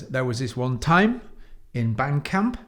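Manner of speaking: each phrase lifts at the end like a question; rising valley-girl tune on band camp; upward inflection. Retold or imitated. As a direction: let the pitch climb on camp. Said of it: "the inflection always goes up".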